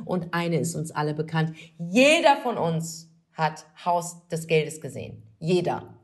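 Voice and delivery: grand, drawn-out show introduction; announcer introduction. Acted. Host hyping the star guest to listeners, grand announcer style. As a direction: build up the star guest with emphatic pauses.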